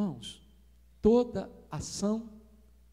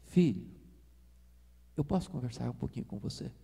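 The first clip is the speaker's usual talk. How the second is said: mild gentle voice; 6 semitones lower, 5 dB quieter than usual. Retold or imitated. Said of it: "com voz amável fala assim".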